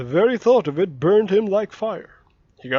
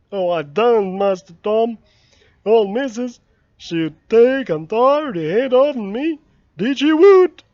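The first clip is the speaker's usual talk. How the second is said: higher, louder fearful voice; rising to a near cry of alarm; Jim, frightened; 4 semitones higher, 7 dB louder than usual. Acted. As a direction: Jim terrified of the missus's anger.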